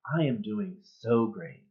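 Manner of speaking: slow, drawn-out mock cheer; slow, unconvincing "doing great"; stock answer. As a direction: stretch out SO great. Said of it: "I usually say".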